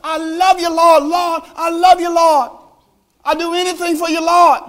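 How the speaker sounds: high, loud, overdone declarations of love; mock gushing believer. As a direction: ham up the empty praise. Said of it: "You don't have to say".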